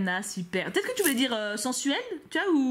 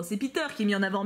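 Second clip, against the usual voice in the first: usual speaking voice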